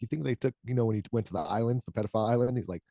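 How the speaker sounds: lightly mimicked robotic voice; mock the famous voice while laughing; Stephen Hawking impression. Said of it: "does an impression of him".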